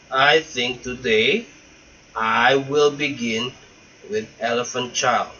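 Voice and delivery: grind it out between the teeth; through his teeth. Acted. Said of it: "he said it between his teeth like this".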